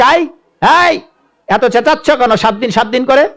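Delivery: high-pitched scolding wife; demoness wife. Acted. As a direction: snap back at a noisy husband. (উঁচু গলায় রাক্ষসী বউয়ের ধমক)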